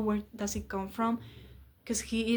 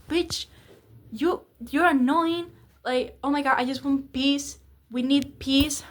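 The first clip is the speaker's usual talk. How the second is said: mock exasperated; 3 semitones higher, 4 dB louder than usual. Imitating boyfriend scolding her.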